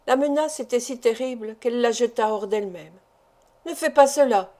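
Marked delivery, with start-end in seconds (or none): 3.7-4.5 frightened wife begging her husband not to hypnotize her, alarmed cry. Acted. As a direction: cry out, a little higher and louder. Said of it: "s'écria-t-elle".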